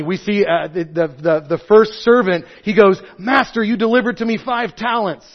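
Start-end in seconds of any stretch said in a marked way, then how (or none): 3.2-5.3 eager report, pitched a bit higher; bright, keen servant's report; excitedly. Acted. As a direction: proudly announce the good news to the master. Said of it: "I say that very excitedly".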